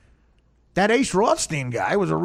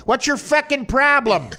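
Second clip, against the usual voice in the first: slow, higher mock mob-guy snarl; Chicago mob accent; 6 semitones higher, 4 dB louder than usual. Comic doing a Chicago mobster, slow menacing mob accent. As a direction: lean into a tough-guy Midwest mob accent. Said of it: "That's how they talk".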